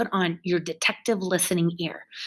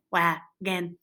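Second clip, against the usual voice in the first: "Wagon" in two softer, separate parts; chin-check syllables; 5 dB quieter than usual. Shown as a demonstration. Teacher checks chin, "Wagon" in two soft parts. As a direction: split "Wagon" evenly, softly, jaw dropping twice.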